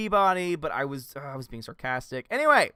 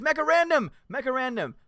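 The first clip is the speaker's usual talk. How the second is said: higher, louder call-out; 11 semitones higher, 5 dB louder than usual. Real, not acted. Streamer calling a viewer to vote, loud call. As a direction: hail the viewer by name.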